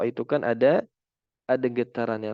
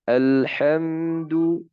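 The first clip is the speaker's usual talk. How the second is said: very slow, unhurried, each mim held still; calm, careful demo of mim sukun; slow and clear; 4 semitones higher, much slower than usual. Shown as a demonstration. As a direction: take it gently and slowly. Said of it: "jangan tergesa-gesa, pelan-pelan".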